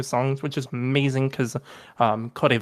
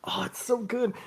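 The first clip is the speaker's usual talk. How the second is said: breathless whisper of delight; hushed, awed whisper; whispered rave; 9 semitones higher, 5 dB quieter than usual. Real, not acted. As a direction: whisper it like a guilty pleasure. Raving about the album.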